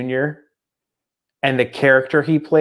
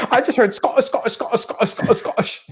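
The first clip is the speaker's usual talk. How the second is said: high, breathy enchanted repetition fading to a whisper; mock her being lost in the accent, voice rising high; dreamy mock wife; 10 semitones higher, faster than usual. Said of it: "enamored with the fact that it's a Scottish accent".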